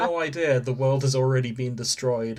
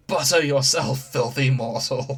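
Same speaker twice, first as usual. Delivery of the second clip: mock shout; 5 dB louder than usual. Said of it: "I have to shout out this line".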